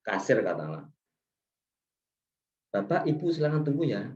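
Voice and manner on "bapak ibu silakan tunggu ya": courteous, even-toned invitation to wait; polite request. Shown as a demonstration. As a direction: ask customers to wait, politely and evenly. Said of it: "Itu kan katanya bagus". (sopan, intonasi biasa)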